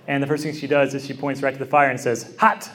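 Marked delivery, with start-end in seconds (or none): 2.4-2.7 imitating a toddler's high, emphatic one-word cry; mock toddler exclamation, pitched up; intense toddler. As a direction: blurt it like a proud toddler. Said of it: "just in the intensity".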